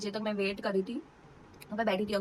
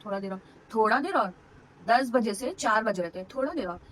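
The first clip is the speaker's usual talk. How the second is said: mock the reassurance, louder and emphatic; incredulous echo; 4 dB louder than usual. Labouring woman echoes sister's promise after six hours, incredulous. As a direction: throw थोड़ा देर और back in disbelief, pitch jumping up.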